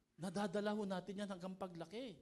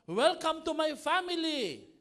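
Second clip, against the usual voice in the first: higher, louder, slow reading of the welcome; slow quoted welcome; 10 semitones higher, 10 dB louder than usual. Retold or imitated. Pastor reading a quote to the congregation, slow and raised. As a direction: announce the welcome like a sign. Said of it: "Sabi dito".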